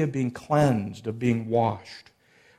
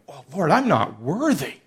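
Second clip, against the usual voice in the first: embarrassed, shocked Peter; 2 semitones higher than usual. Retold or imitated. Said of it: "kind of embarrassed, kind of shocked, going".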